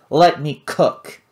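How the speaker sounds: loud, slow plea to cook; bellowing. Acted. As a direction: boom out the demand. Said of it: "bellowed Vlad".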